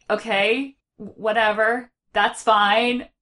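bored grown-up. Retold or imitated. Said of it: "the grown-up is just like".

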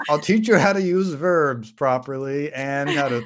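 put-on lightly wandering Irish accent; attempted Irish accent. Talon promising to teach the clones, wobbly mock Irish accent. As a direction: slip between accents while attempting Irish. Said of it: "go through so many accents".

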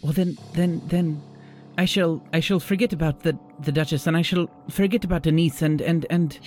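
lovestruck host. Acted. Host turns dreamy, high.

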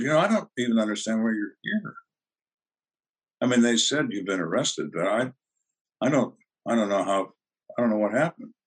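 hesitant, stumbling over the words; feigned confusion. Retold or imitated. Detective playing confused to a suspect, mildly bewildered. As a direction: act a little lost, restarting the sentence.

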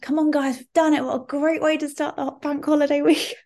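high-pitched, annoyingly peppy rallying; mock hype-up of a tired room; high-energy cheerleading. Rallying the spin class after it ends, annoyingly high-energy. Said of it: "peak high energy annoying Charlotte".

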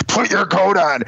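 retold parental yell. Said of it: "I have yelled at my kids".

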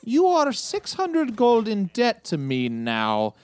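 very slow, deliberate threat; slow menace. Acted. Collector tells Nathaniel he now owes him, slow menace. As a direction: let each word of the debt sink in.

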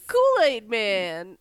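drawn-out slow delivery; slow announcement. Acted. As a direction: stretch each word.

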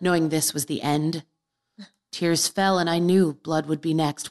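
mildly melodramatic verse recital; dramatic poem reading. Acted. Reading a teenage poem to the hosts, dramatic recital. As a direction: recite it slowly as teenage tragedy.

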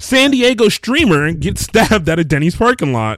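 lightly mocked-up newscaster headline; mock news headline. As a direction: announce it like a joke news story.

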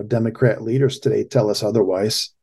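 ordinary talk, nothing marked

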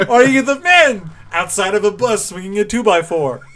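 high, loud absurd question; mock quiz question. Host inventing Warriors quiz questions, mock quiz voice. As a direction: pose it like a silly quiz option.

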